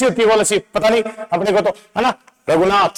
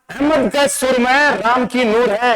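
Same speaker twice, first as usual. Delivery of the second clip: slow recital; 3 semitones higher, slower than usual. Shown as a demonstration. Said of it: "दोबारा से दिखाना".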